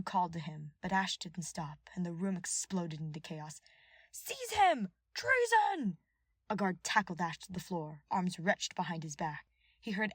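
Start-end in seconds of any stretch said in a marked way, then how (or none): 4.1-6.0 high, loud command; shouting. A narrator's reading. Voice in the chamber ordering arrest, loud shout. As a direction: yell for the guards to seize him.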